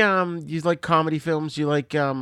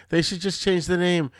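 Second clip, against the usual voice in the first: imitating Jim Gaffigan; 7 semitones higher, slower than usual. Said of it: "He's like".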